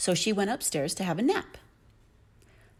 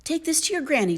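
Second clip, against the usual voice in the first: lightly voiced mother; 9 semitones higher, faster than usual. A narrator's reading. Missus Hood to daughter.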